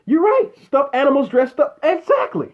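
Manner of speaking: high, mocking "you're right"; mock agreeing with the chat; sarcastic agreement. Real, not acted. Vlogger answering chat comments, high mock agreement.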